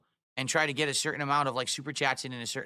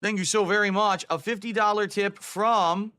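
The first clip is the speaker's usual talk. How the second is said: excited thanks; 5 semitones higher, 3 dB louder, slower than usual. Acted. Thanks a donor on stream.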